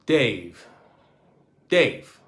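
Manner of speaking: captain calling Dave over the radio, nervously. A narrator's reading. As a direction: call him twice, anxious. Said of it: "Captain Legweek called nervously".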